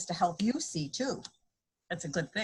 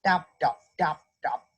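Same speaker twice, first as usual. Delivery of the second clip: footstep sound; 4 semitones lower than usual. A narrator's reading. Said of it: "his shoes go".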